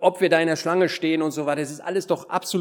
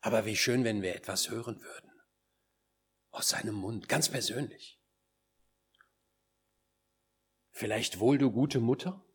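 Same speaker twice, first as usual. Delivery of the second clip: soft, lowered, gentle voice; tender hush; 4 semitones lower, 7 dB quieter than usual. Acted. Preacher imagines the Lord addressing a good mother, tender hush. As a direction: speak softly, as if personally to one listener.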